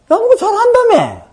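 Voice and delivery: high, loud retold challenge; mock challenge. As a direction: call the kids out, loud and high-pitched. Retells challenging the boasting kids.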